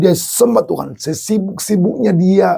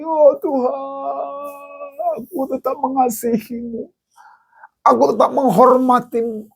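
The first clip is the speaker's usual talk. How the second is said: Job crying in prayer; 10 semitones higher than usual. Acted. Job prays to God over his dead child, tearful.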